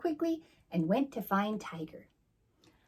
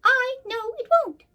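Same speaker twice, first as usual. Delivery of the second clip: very high, loud bee queen yelling; furious shout; 10 dB louder than usual. Acted. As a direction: scream it again at Rabbit.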